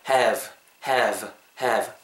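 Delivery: "have" ending in a buzzing V; correct final V. Shown as a demonstration. Teacher drilling the V sound, "have" with a buzzed ending. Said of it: "윗니 아랫입술에다가 살짝 대시고".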